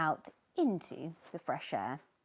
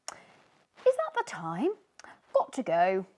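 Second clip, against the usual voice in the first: fake-surprised fish; 7 dB louder than usual. Third fish escaping Sneezy, mock surprised. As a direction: pretend you just noticed the time. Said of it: "said another".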